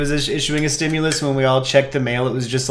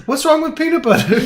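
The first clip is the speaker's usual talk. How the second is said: put-on Boston accent; 12 semitones higher than usual. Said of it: "it's the Boston accent".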